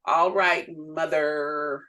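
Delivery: drawn-out, mildly sarcastic "mother"; understated sarcastic compliance. Retold or imitated. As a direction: give in with a touch of sarcasm. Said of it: "I'm being a bit sarcastic".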